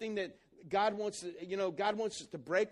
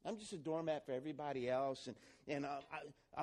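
self-pitying; 6 semitones lower, 9 dB quieter than usual. Retold or imitated. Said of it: "you begin to think".

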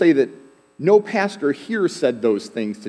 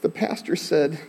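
put-on tearful little boy; 3 semitones higher than usual. Six-year-old Jason telling his parents why he cried, lightly voiced child. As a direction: play the small boy, earnest and worried. Boy's punchline quote in story.

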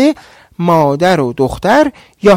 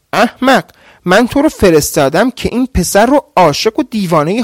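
shouting; 3 semitones higher than usual. Acted. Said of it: "فریاد کشان گفت".

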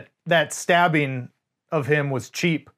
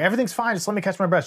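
higher-pitched, mildly imitated reassurance; soothing reassurance; 4 semitones higher, much faster than usual. Host imitates a dying aunt comforting her nephew, mild soothing reassurance. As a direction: play down the injury to comfort someone. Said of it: "she's trying to soothe her".

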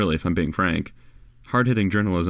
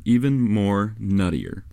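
slow correction; slower than usual. Shown as a demonstration.

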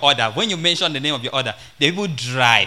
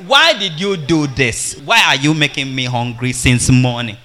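questioning husband; 5 dB louder than usual. Acted. Husband asking his wife why he is hungry, mildly exasperated. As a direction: put mild exasperation into the questions. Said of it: "We are asking".

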